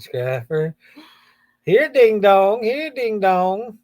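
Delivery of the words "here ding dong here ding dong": higher singsong call for a lost pet. Pretend. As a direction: playfully call it to come. Calls lost ding dong like pet.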